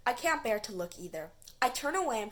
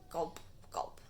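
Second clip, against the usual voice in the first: fading gulps; 5 semitones lower, 7 dB quieter than usual. Acted. Caterpillar gulping, fading out.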